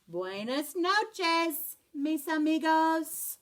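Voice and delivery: slow, drowsy goodnight; sleepy goodnight. Acted. Skippy John bidding friends goodnight, slow and sleepy. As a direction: drift off as you say it.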